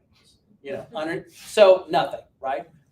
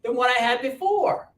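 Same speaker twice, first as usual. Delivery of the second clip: laughing; 10 semitones higher, 6 dB louder than usual. Real, not acted. Laughing, mock-proud about new bike.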